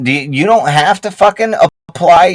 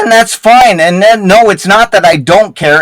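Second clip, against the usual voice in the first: raised angry voice; 5 semitones higher, 3 dB louder than usual. Real, not acted. Heated voice chat argument.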